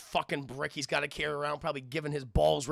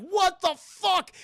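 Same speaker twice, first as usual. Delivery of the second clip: high, loud, drawn-out disbelief; slow stunned mock yell; Murtaugh; 7 dB louder, much slower than usual. Partner watching them jump off, slow high yell. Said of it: "Murtaugh's like".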